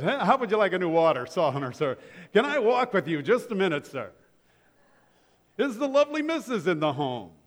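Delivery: 1 smarmy salesman. Retold or imitated. Mock salesman pitch.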